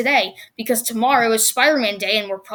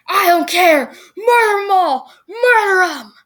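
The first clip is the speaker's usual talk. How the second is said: villain voice; 7 semitones higher, 5 dB louder, slower than usual. Retold or imitated. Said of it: "he's like".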